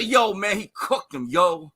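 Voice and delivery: mock street-slang accent; put-on slang accent. Guest mimicking Stephen A's fans, put-on slang accent. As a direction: put on an exaggerated "yo, man" accent. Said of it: "What was that accent?".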